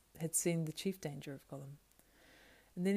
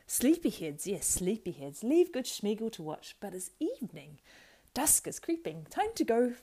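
high wheedling creature voice; fawning Gollum; 4 semitones higher, 4 dB louder than usual. Acted. Gollum fawning over the waking hobbits. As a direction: flatter them slyly.

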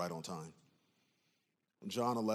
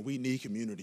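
need hit once more; stress on need; faster than usual. Shown as a demonstration. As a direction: land hard on need. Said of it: "I'm gonna say it again".

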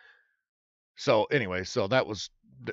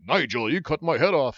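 serious knight; 3 semitones higher, 5 dB louder than usual. Retold or imitated. Casting lady makes him read the line as a serious knight. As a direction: read it straight like a grim knight. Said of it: "she made me read it that way".

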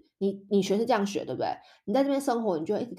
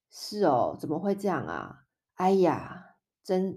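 sighing disbelief. Shown as a demonstration. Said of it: "当你觉得很叹息的时候".

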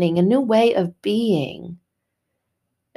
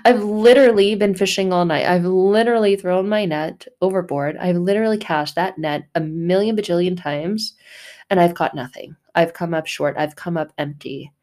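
fed-up Peter. Acted. Peter complaining to God after fishing all night, exasperated. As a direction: vent like a worn-out fisherman. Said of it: "And he's like".

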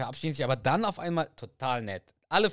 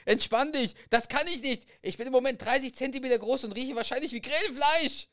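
high voice of a thirty-centimetre-tall woman, louder; tiny shrunken Carrie; 13 semitones higher, 4 dB louder than usual. Acted. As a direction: squeak it out as the shrunken wife. Tiny Carrie complaining in scene. (winzige Carrie mit hoher Stimme)

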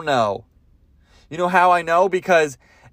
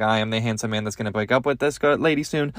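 low, fast mock introduction; deadpan introduction; 4 semitones lower, 4 dB quieter, faster than usual. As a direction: rattle it off low, as a dry aside. Deadpan aside introducing himself.

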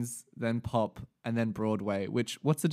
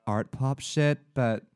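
put-on American reviewer accent. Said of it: "you changed accents halfway through".

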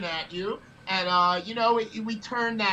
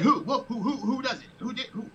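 flustered, laughing stammer of "who"; confused laughing; 5 semitones higher than usual. Retold or imitated. The manager hearing they made a kid cry, laughing confusion. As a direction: stumble over the words through a laugh.

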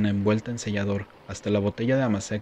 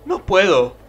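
desperate cry; 10 semitones higher, 9 dB louder, slower than usual. Acted. Breaking down.

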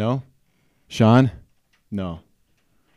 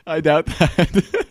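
mocking doubt; 6 semitones higher, much slower than usual. Host mocks ogre's friends claim.

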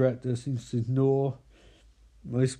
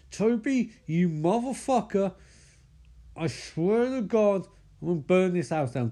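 higher-pitched, lightly hammed-up fury; mock angry threat; 5 semitones higher than usual. Micah confronts the demon who grabbed Katie, mock angry. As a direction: draw out the oath as a threat.

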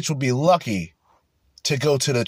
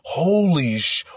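imitating the guy; 3 semitones higher, slower than usual. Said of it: "the guy in the background who says".

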